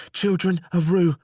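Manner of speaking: high, urgent jailer calling down. Acted. Jailer calling down to the cell, high and urgent.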